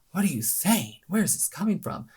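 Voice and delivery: high-pitched mock bewilderment; disbelieving listener. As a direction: question it in staged disbelief.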